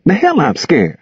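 high-pitched, hurt denial; stung, defensive. A narrator's reading. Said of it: "Gus, hurt and stung, defended himself".

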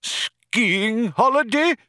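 very high, slow, incredulous cry; outraged cry. A narrator's reading. Old man hears the skiing suggestion, incredulous cry. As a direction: draw it out in high disbelief. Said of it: "cried the old man".

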